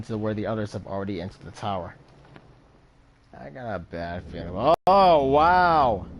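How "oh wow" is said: surprised oh wow. Real, not acted. Player reacts to bad feeling.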